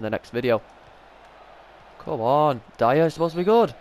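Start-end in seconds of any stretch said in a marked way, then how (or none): 2.0-3.7 urging on. Real, not acted. Urging his player during FIFA match.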